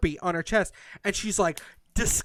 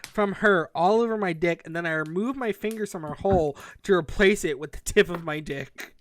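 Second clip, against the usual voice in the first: reading it fast. Shown as a demonstration. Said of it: "can I read the awful sentence real fast".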